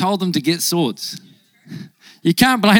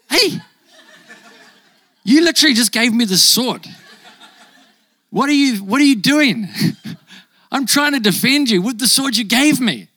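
laughing indignant protest; 4 semitones higher than usual. Retold or imitated. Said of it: "you're like".

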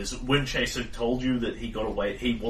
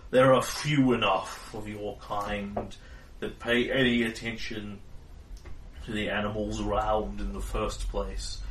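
mammoth voice. Acted. Mammoth lectures them.

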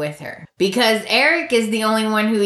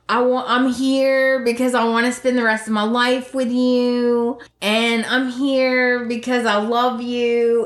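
mock romantic speech; 3 semitones higher than usual. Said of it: "his speech that he always gives".

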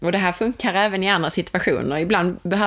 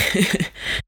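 self-conscious laugh; 2 semitones higher than usual. Real, not acted. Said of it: "skratta åt mina försök här".

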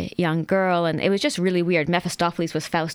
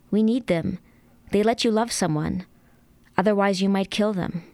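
measured reading voice, narration with lightly voiced dialogue; story narration; 2 semitones higher than usual. Author reading a scene from her novel aloud to the host, in a calm narration voice. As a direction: read the scene evenly, letting the quotes sit.

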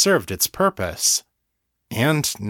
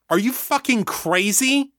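much higher, outraged yell; furious demand; 12 semitones higher than usual. A narrator's reading. Daniel confronts the hive over his sister, furious. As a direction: hurl it at them, livid. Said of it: "he demanded".

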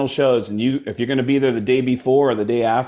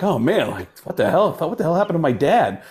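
higher-pitched startled son; mock bewildered; 5 semitones higher than usual. Son reacts to impostor dad, mock bewildered. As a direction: imitate a son taken aback.

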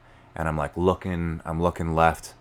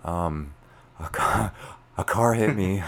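higher, careful, hesitant phone voice; super calm voice; 3 semitones higher, slower than usual. Retold or imitated. Son telling his dad about the crash, super calm. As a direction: break bad news with put-on calm. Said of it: "super calm voice".

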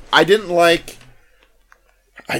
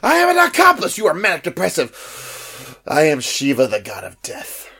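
Michael Clayton quote; 3 semitones higher than usual. Retold or imitated. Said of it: "Michael Clayton".

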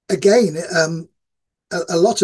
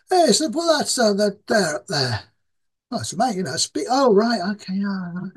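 higher, broad Yorkshire half-words, barely any real sentences; hometown Yorkshire mumble; 5 semitones higher than usual. Shown as a demonstration. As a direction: talk like a local at home who hardly needs words. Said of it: "you don't even have to use words".

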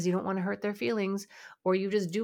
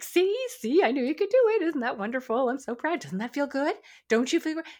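much higher and louder, gushing like throwing a parade; gushing over-praise; 8 semitones higher, 6 dB louder than usual. Shown as a demonstration. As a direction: overdo the praise with a squeal of delight. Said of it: "Don't be like".

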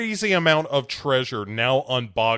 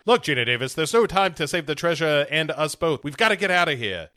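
urgent; 6 semitones higher, 4 dB louder, faster than usual. Retold or imitated. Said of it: "he tells her".

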